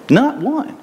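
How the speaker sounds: NOT ONE flung out high; emphatic not one. Real, not acted. Preacher stressing to the congregation that nobody took Jesus on. Preacher drives point home.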